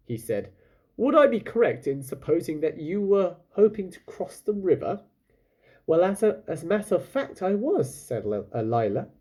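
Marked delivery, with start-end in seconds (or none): 1.0-5.0 raised, smooth sales pitch; oily polite captain, pitched up; lightly voiced pirate captain. Captain sweet-talks Lila aboard, lightly voiced. 5.9-7.9 higher, a little hesitant; a hint of a polite young girl; lightly voiced girl. Lila answers the captain, lightly voiced and higher.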